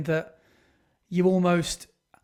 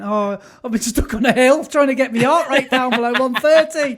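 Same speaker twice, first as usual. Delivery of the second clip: raised, louder, put-upon husband; mock excuse; 4 semitones higher, 5 dB louder than usual. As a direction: plead your silly case to the wife. Acting out excuse to wife.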